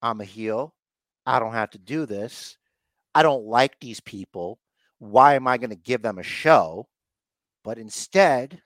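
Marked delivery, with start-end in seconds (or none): 0.0-6.9 Ronda mulling it over. Retold or imitated. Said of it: "And then Ronda's like".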